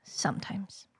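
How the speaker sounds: soft, secretive whisper; hushed whisper. Pretend. Hushed repeat of the answer.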